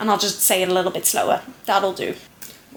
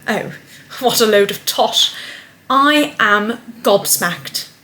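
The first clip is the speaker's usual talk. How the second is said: stereotypical British; 3 semitones higher than usual. Acted. Vlogger performing her timed British script, hammed-up posh-Cockney British. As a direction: play up the stereotypical British chat. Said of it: "so stereotypically British, and it is such a mix of, like, posh British and, like, Cockney".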